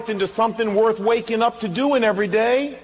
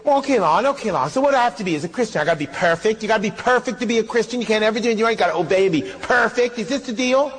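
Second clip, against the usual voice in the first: skeptical listener; faster than usual. Retold or imitated. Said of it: "You say".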